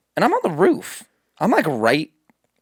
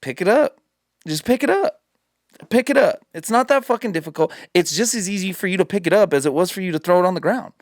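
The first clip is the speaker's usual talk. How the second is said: higher, insistent, rising scold; mock exasperated scolding; 4 semitones higher, faster than usual. Scolding the litterer from the roof, higher and insistent. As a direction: nag him until he picks it up.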